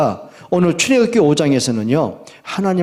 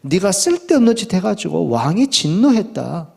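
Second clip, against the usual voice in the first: mildly acted reproach, pitched up; resentful complaint; 8 semitones higher than usual. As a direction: accuse the leader in an aggrieved, higher voice. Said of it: "이렇게 원망을 합니다". (원망하며 따지는 말투)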